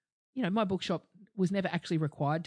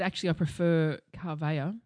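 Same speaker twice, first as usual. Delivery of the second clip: mock posh request. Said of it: "And I said".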